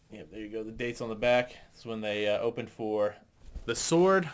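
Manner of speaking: muffled, shirt held over mic; muffled voice behind fabric. Real, not acted. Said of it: "I'm sorry if I'm getting muffled".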